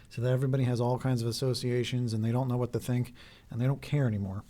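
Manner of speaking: hoarse, tired voice fading out. Real, not acted. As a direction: voice going hoarse, losing it. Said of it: "my voice is starting to lose".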